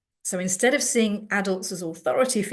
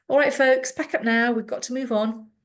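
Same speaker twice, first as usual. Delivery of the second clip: higher, louder call to pack up; brisk key worker; 5 semitones higher, 3 dB louder than usual. Retold or imitated. Key worker telling students to pack up, brisk. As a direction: hurry the students along, briskly.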